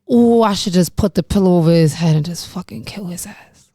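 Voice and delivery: a hushed whisper of an intrusive thought; whispered dark thought. Retold or imitated. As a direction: whisper it like a voice in your head. Retold intrusive thought while passing room.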